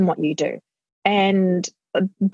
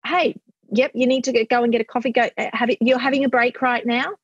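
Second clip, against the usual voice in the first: raised, upbeat, easy-going okay; upbeat parent approving a break; bright encouragement; 4 semitones higher than usual. Shown as a demonstration. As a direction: cheerfully let him take the break. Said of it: "it's kinda like".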